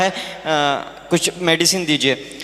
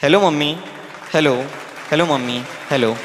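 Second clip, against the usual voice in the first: rhythmic verse recital, rising appeals dropping to low questions; poem recitation; 3 semitones lower than usual. Acted. Daughter in heaven questions her mother until the line drops, poem recitation. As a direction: press the questions in verse, then let the calls sink low. Poem resumes after explanatory aside.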